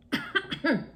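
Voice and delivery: sudden cough after swallowing a bug; real choking cough. Real, not acted. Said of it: "I think I just swallowed a bug".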